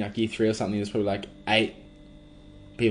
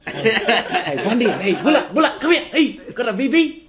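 put-on outback Aboriginal accent; 12 semitones higher, 5 dB louder than usual. Mimicking outback mates calling out.

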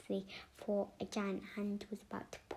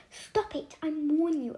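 high, much louder yell; angry warning shout; 7 semitones higher, 11 dB louder than usual. Acted. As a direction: yell at her friend to stop.

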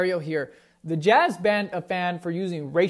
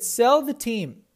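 slow mock yell, higher and a bit louder; mock fan shout; 5 semitones higher, 4 dB louder, slower than usual. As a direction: ham up the heckler yelling at the owner, slow. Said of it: "he shouted at James Dolan".

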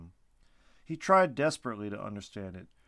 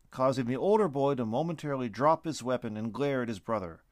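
ordinary delivery

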